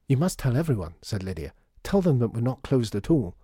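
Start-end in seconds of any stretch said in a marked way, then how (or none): 0.1-1.0 put-on high, loud pleading child; earnest urging. Lydia asking customer to tell everyone, eager urging. 1.8-3.4 raised, loud, keen insistence; earnest urging. Acted. Lydia asking customer to spread news, eager urging.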